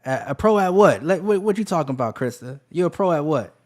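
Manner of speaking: loud, high disbelieving question; what are you talking about; incredulous. Real, not acted. Incredulous at chat comment.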